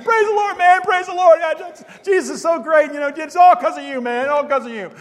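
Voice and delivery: high, loud gushing that eases down; exuberant praise. Retold or imitated. Converted friend crediting John for his new faith, exuberant praise. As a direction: gush with joy, starting at a shout.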